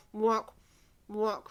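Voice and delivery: duck quacks. Shown as a demonstration. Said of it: "make a quack noise".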